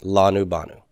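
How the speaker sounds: "Lanu, banu" each stressed on its first syllable; stress on the front. Shown as a demonstration. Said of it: "stress on the front".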